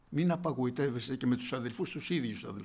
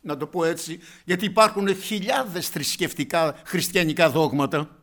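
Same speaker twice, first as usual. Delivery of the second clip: loud, driving sermon voice; fiery preaching; 2 semitones higher, 8 dB louder than usual. Acted. Preacher thundering at his congregation, loud.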